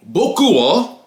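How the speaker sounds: slow, drawn-out Japanese in a put-on voice; mock a classmate labouring over his Japanese; show-off classmate. Imitating Tyrone answering in Japanese class, slow put-on show-off. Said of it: "This nigga will be like".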